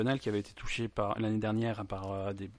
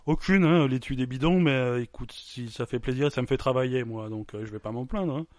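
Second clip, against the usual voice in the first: disguised voice; 5 dB louder than usual. Pretend. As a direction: play the anonymous witness, hammed up a little. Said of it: "Ma, ma voix est modifiée".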